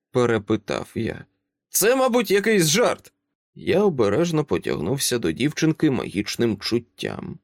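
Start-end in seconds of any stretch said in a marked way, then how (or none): 1.7-3.1 put-on high child voice, calm and grown-up; a small girl who talks like an adult; composed little girl. Child asks Dresden to let them in, composed and high.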